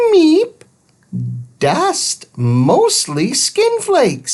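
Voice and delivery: high beeping robot voice, broken grammar; robot Thud. A narrator's reading. Little robot explaining follicles, high beep first. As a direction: beep then explain simply.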